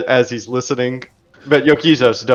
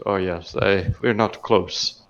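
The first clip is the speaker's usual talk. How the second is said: sheepish dwarf; 5 semitones lower, 6 dB quieter, slower than usual. Acted. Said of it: "laughs as he rubs his head".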